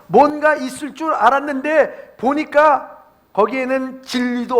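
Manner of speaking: impassioned preaching. Real, not acted. Preacher warning congregation about false teachers, high-pitched impassioned preaching. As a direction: preach it high and insistent, driving each phrase home.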